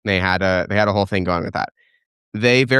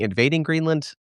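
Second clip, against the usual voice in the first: Greenland lifted high in mock disbelief; amused incredulous question; 7 semitones higher than usual. Shown as a demonstration. Host repeating a viewer's odd wording, amused and incredulous. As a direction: quote the word back, pitched up and doubtful. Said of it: "His terminology is a little funny".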